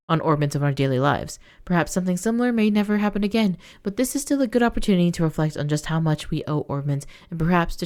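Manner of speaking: steady news-anchor read; measured report voice; newspaper read-aloud. Acted. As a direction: read it like a bulletin. Reads in-game newspaper aloud.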